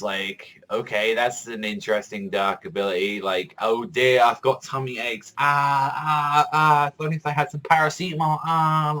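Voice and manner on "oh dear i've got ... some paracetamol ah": hammed-up groaning, slightly higher and louder; theatrical mock suffering with groans; mock stomach-ache moaning. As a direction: ham up a pained old lady clutching her tummy. Mocking villain's stomach-ache power.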